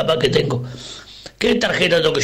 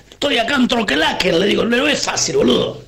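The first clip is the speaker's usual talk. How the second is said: exasperated retort; 6 semitones higher than usual. Acted. Exasperated retort in retold call.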